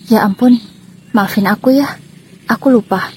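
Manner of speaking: a lightly voiced husband shrugging it off; casual husband's careless apology; offhand apology. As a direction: toss off the sorry casually. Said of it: "dengan entengnya".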